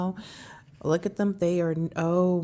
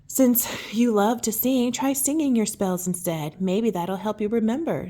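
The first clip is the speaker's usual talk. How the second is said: kindly teacher. Acted. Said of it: "said Miss Flutterby kindly".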